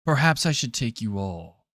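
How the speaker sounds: hushed, deep-pitched voice of a haughty deity; ominous old god. Acted. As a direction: speak quietly into their minds as an ancient god. Game master voices old god in mind.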